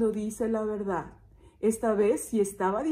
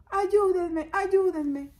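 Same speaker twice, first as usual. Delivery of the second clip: high mock cry for help; toned-down acted shout; shepherd calling out; 8 semitones higher, much slower than usual. Shepherd calling deaf villagers, mock shouting. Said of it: "donde está gritando".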